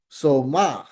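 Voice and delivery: "soma" with pitch lifting, then dropping; rise then fall. Shown as a demonstration. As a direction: bend "soma" up and down. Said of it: "pataas and then pababa".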